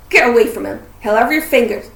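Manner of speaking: loud, urgent warning; shouted warning. A narrator's reading. Hagrid warning them off the hippogriff, loud shout. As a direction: shout them away from danger.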